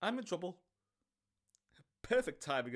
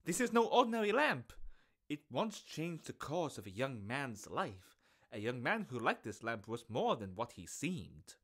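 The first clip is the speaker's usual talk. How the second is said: peddler voice. Acted. Peddler continues pitch.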